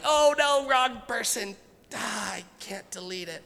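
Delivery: sudden texting panic; mock panic. Panic over wrong text.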